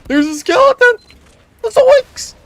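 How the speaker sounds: high, loud startled cry; startled yelp. Real, not acted. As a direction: yelp in sudden fright. A skeleton suddenly appears.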